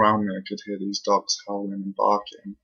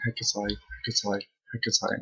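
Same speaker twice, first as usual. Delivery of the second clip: imitating a soft, ghostly whisper of a name; eerie whispers; 7 dB quieter than usual. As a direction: breathe the name out softly like a spirit. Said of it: "I literally heard whispers saying".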